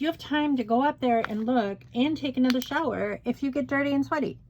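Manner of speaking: retold exasperation at husband, mocking his dirty and sweaty; exasperated retort. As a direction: throw his own words back at him. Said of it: "I'm like".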